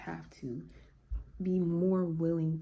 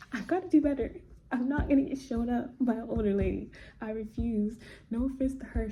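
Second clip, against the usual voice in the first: laughing, higher and louder, fast at first; 6 semitones higher, 5 dB louder than usual. Real, not acted. Laughing at being shown up by an older lady. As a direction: laugh it out, fired up about being outdone. Laughing at herself over gym rivalry.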